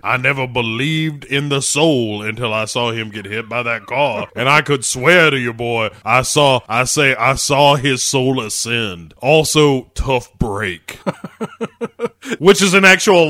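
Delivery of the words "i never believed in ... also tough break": put-on gruff old man. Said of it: "voicing Pat Hingle".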